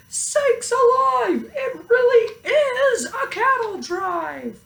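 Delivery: very high, laughing disbelief; deputy half laughing in shock; deputy crying out. A narrator's reading. Deputy exclaiming at the cows, high and laughing. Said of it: "The deputy cried".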